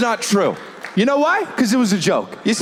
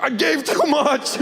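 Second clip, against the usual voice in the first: 1 nice lady voice; 8 semitones higher, slower than usual. Retold or imitated. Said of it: "She's like".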